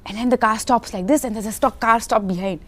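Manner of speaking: imitating a director acting out every detail; excited mock briefing in short bursts; director's animated explaining. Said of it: "So explanation he would give, like, full".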